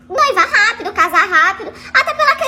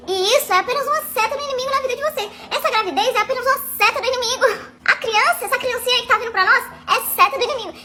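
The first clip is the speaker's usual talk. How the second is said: preachy pastor; 3 dB quieter than usual. Retold or imitated. Pastor preaching about arrows.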